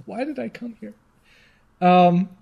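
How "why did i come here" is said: very slow, drawn-out exasperation; exasperated groan. Real, not acted. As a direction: stretch it out in despair. Exasperated at the page.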